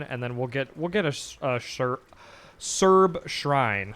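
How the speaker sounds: hoarse, worn-out voice; strained hoarse voice trailing off; losing voice. Real, not acted. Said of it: "Sorry, I'm losing my voice".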